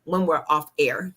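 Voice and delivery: talking funny after dental work; words slurred by a numb mouth. Real, not acted. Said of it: "I'm talking a little funny".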